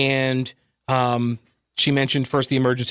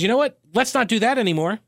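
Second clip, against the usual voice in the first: legislature voice. Retold or imitated. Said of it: "General Assembly says".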